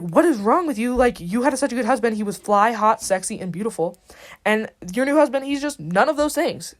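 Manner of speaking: exasperated, emphatic telling-off; lightly acted indignant rant; mock scolding. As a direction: berate her in playful overstatement. Hamlet scolds his mother.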